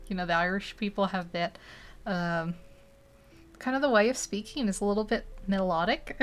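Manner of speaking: half-hearted go at a melodic Irish accent; tentative, lightly sung-out Irish accent; attempted Irish accent. Shown as a demonstration. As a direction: try an Irish lilt and not quite manage it. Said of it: "I can't do it".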